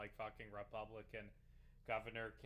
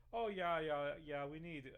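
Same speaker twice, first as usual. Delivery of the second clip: lightly put-on Canadian accent, a bit louder; mock Canadian accent; 3 semitones higher, 5 dB louder than usual. Streamer mimicking a governor candidate, mock Canadian accent. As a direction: imitate him with a touch of Canadian. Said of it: "I don't know why I'm making a Ghanaian".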